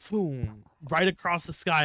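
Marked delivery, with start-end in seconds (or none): 0.1-0.6 imitated whoosh. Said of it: "It literally went".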